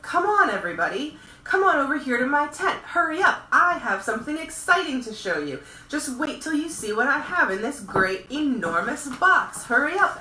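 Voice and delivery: high, loud carnival barker calling the crowd; barker's shout. Acted. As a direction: call them in like a circus ringmaster. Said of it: "the circus man would shout".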